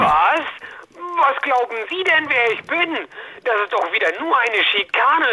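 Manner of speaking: bristling at his colleague on the phone; outraged outburst. Acted. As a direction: flare up at the insult. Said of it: "Sie aufbrausender Bastard".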